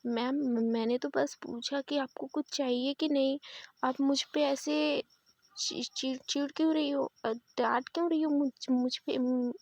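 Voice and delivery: hesitant, stumbling protest; stammering. Acted. Waiter stammers back at the angry guest, stumbling over words. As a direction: trip over the words nervously. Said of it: "ऐसे वो हकलाते हुए बोल रहा होता है".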